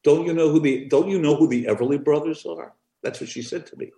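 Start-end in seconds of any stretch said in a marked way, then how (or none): 0.0-2.7 put-on indignant old woman. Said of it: "She goes".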